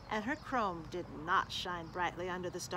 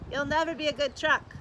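scornful brother truck; 5 semitones higher, 7 dB louder than usual. Acted. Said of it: "said another brother".

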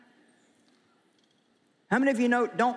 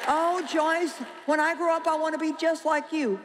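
higher-pitched, lightly mocked adoring fan; gushing admirer; 5 semitones higher than usual. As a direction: imitate a starry-eyed admirer, pitched up. Voices an admirer wanting to copy her.

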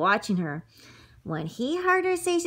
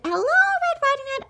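lilting high put-on greeting; sly wolf greeting. Wolf greeting the girl in a sweet false voice. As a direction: coax her sweetly, voice lifted.

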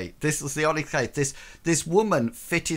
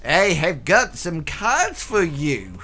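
gloating voice; 5 dB louder, slower than usual. Retold or imitated. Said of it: "he sort of like".

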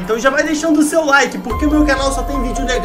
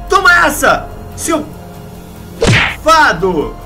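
taunting shout; 2 semitones higher, slower than usual. Acted. Detective strikes Harold.

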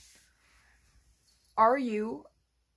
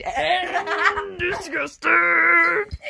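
slow, loud, high laughing words; laughing loudly; 9 semitones higher, 14 dB louder, much slower than usual. Real, not acted. Reacting to dance, laughing.

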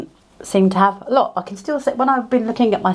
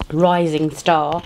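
mock grand; 2 semitones lower, much slower than usual. Shown as a demonstration. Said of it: "enough of that jolliness".

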